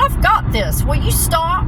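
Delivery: high-pitched, fed-up retold retort; reenacted impatient telling-off; exasperated insistence. Shutting down panicking Dad.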